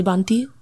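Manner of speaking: "Banti" said as in Punjabi or Indian English; Punjabi pronunciation. Shown as a demonstration. Explaining how she and the drummer say it, Indian pronunciation. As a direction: say "Banti" with an Indian-accent vowel. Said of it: "as you would if you had a Punjabi or Indian accent".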